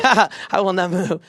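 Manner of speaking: slow, strained imitation; mock resolute player. Leader mimicking a frozen player, slow mock resolve. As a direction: drag it out with exaggerated determination. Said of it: "he's, he's like".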